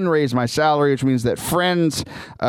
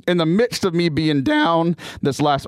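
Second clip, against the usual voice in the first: voice cracking. Real, not acted. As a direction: voice cracks mid-phrase. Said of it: "nice little, uh, voice crack there".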